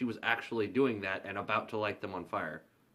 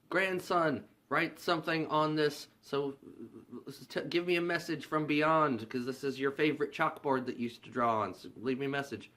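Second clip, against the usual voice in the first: seance caller; 5 semitones higher than usual. Retold or imitated. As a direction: summon the grandson from beyond. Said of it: "And then she says".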